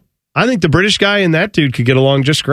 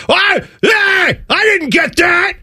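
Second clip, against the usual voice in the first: mock whining loser, much higher and shouted; whiny loser; 13 semitones higher, slower than usual. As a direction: ham up a sore loser's high, drawn-out wail. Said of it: "a lot of people are like".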